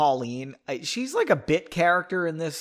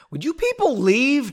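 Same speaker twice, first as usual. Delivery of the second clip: a touch higher, mild yell; yelling from behind door; 8 semitones higher, 5 dB louder than usual. Acted. Jamie yelling from her room, mild annoyed yell. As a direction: call out annoyed through a door. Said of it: "Jamie's voice yelled".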